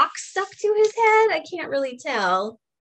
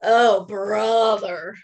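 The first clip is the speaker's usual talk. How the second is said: slow, louder eye-rolling "Oh, brother"; unimpressed sigh; 3 semitones lower, 4 dB louder, slower than usual. Acted. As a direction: drag it out, fed up with the bragging. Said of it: "He says".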